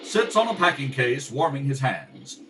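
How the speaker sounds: lyrical scene-setting narration over music; radio narration. A narrator's reading. Narrator describing the city dump, lyrical and steady. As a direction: paint the moonlit dump for listeners.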